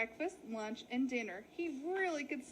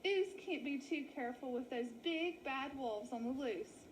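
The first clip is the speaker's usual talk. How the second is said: relieved sheep. Acted. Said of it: "sighed with relief".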